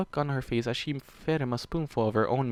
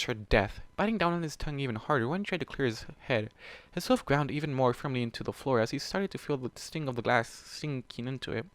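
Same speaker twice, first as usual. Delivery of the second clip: plain reading voice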